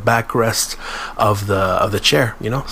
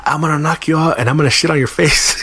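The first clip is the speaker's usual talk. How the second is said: mock angry coworker; 5 semitones higher than usual. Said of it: "He said".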